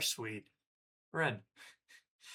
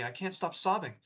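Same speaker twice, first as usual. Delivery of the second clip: lightly voiced upset friend, a touch higher; mild teary friend voice; 5 semitones higher than usual. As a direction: read it in a hint of her voice. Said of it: "I'm gonna stop with the voices now".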